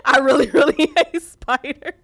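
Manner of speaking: mild mock of an embarrassed man; sheepish man. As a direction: own up sheepishly through giggles. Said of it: "The man".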